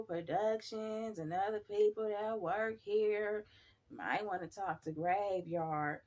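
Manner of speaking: slow, secretive coworker voice; lightly voiced coworker, slow and hushed; hushed coworker gossip. Coworker warns about ghosts, slow hushed mock secret.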